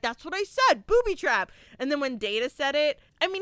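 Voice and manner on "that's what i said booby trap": put-on mumbling kid. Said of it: "He's like".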